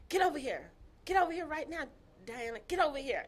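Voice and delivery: mildly heated, punchy repeated order; insistent order. Retold or imitated. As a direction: imitate a man demanding she come over. Retold man ordering woman over phone.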